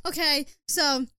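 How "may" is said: high, slow, shouted joy; hammed-up delight at being cast; overjoyed shout, pitched up; thrilled Aunt May. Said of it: "You are Aunt May in Spider-Man".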